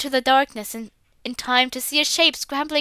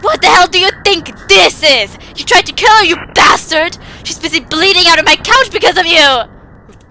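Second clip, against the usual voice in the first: high, loud enraged yelling; furious accusation; 5 semitones higher, 10 dB louder than usual. Acted. Boy screams at the father through the door.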